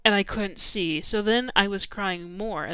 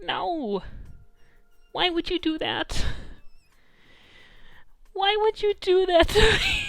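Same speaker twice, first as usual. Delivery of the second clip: rising pitched mock wail of protest; hammed-up betrayed whine, louder at the end; mock outraged cry; 11 semitones higher, 4 dB louder than usual. Complaining to the photographer, mock outraged wail. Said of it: "I'm like".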